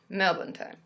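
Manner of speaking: "Melbourne" as Aussie Melb'n, no R; Australian "Melbourne", second syllable swallowed; Australian pronunciation. Shown as a demonstration. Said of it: "if I was to say it properly".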